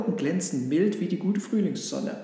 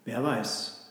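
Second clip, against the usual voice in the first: understated murmured grumble; a hint of a grumbling cow; low grumble; 3 semitones lower than usual. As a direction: grumble it, noncommittal. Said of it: "brummte die Kuh".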